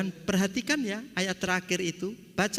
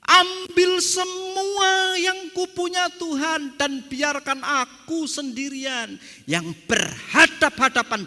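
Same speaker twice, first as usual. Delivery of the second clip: high, loud and slow cry to God; anguished plea; 8 semitones higher, 5 dB louder than usual. Acted. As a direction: beg it out, stretching every word.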